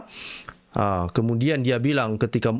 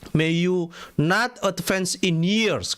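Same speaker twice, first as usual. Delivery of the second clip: very slow, drawn-out curse; slow ominous curse; slow curse reading; 4 semitones higher, much slower than usual. Acted. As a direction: lay the curse on each word. Rereads the curse slowly.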